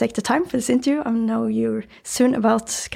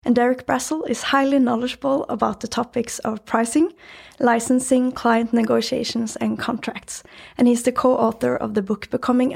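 room echo, meeting room acoustics; recorded in a small meeting room. Real, not acted. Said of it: "recording this episode in a meeting room".

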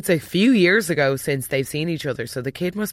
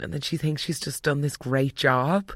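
usual speaking voice

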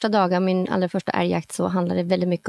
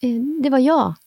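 higher, louder hesitant call; called-out admission; 6 semitones higher, 4 dB louder than usual. Retold or imitated. Hunter calling to the team that she fired. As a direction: call it out across the forest.

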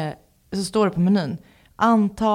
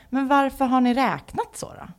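retold wished-for yell; 5 semitones higher than usual. Customer wanting to argue with smoothie staff, mild mock exasperated yell. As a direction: protest as if holding back a yell. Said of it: "jag ville skrika så här".

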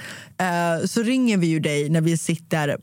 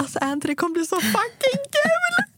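much higher, squealing with excitement; excited; 12 semitones higher than usual. Real, not acted. Telling Anty how fun Dubai will be, an excited squeal. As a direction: let the joy burst up high. Thrilled about trip to friend.

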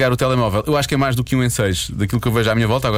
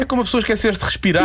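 after laughing hard; 11 semitones higher than usual. Real, not acted.

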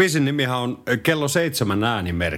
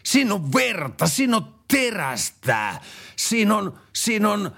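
stern patriot man; 4 semitones higher, slower than usual. Acted. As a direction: growl like a hammed-up patriot. Tough patriot praises cruise. (esitetty jäyhä maanpuolustusmies)

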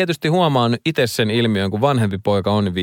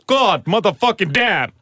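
strained curse; 9 semitones higher, slower than usual. Real, not acted. Reaction to smelling salt.

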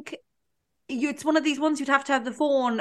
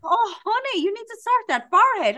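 mimicking the beautician; 9 semitones higher, 3 dB louder than usual. Beautician voiced in story.

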